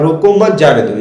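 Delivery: "रोको मत" run together, then "जाने दो"; group रोको with मत, then let जाने दो follow; pause after मत. Shown as a demonstration. Teacher reading the go-ahead meaning, break after मत. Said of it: "उसे रोकना नहीं है".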